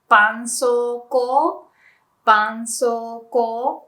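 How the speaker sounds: "bansoko" slowly, in even syllables ban-so-ko; Japanese pronunciation. Shown as a demonstration. Teacher giving the proper Japanese name, slow clear demonstration. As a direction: model "bansoko" clearly for learners, long final o. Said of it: "it's actually".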